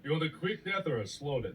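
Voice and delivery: put-on botched Swiss accent.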